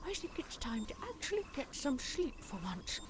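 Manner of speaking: soft unvoiced whisper. Sarah Jane praising K9 at night, whispering. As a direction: whisper so nobody wakes. Late night, quiet house.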